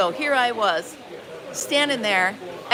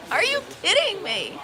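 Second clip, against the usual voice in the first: laughing; 8 semitones higher than usual. Retold or imitated. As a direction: laugh it out in disbelief. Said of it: "I was like".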